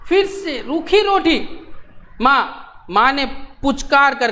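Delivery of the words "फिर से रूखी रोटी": slow, high sulky complaint; boy complaining again about plain bread, slow and whiny; whiny child. Acted. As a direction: drag it out like a pouting kid. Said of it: "उसने बोला".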